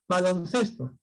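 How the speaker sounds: Baloncesto with its main stress on -ces-. Shown as a demonstration. Teacher showing the class where Baloncesto is stressed, stress on -ces-. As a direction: put the weight of Baloncesto on the next-to-last syllable, ces. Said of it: "La mayor fuerza de voz está aquí".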